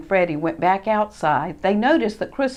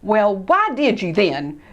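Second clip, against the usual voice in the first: mild mock yell; 4 dB louder than usual. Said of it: "yelled Ted".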